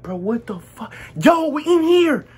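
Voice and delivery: shocked, high and drawn-out mock call. Friends calling to the runaway from inside Zaxby's, calling out. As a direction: call out in disbelief, pitch climbing.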